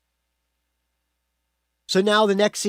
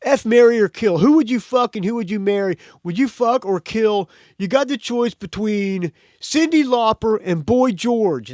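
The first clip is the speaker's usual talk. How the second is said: acted quote; 5 semitones higher, 3 dB louder than usual. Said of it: "Vinny's going".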